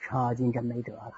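cocky threats sliding into helpless whining; bluster, then lose heart; bluffing Cheng Yaojin. Acted. (程咬金虚张声势又泄气)

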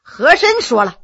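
usual speaking voice

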